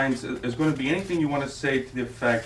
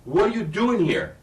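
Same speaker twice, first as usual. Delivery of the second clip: much higher, louder, slow scream; 9 semitones higher, 10 dB louder, slower than usual. Shown as a demonstration. Director showing actress the full scream, high and loud. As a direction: shriek it slowly at the ex-husband. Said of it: "you're gonna be screaming".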